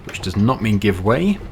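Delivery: lightly voiced instructor, precise and measured; a hint of a patient driving instructor. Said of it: "trying to talk like a driving instructor".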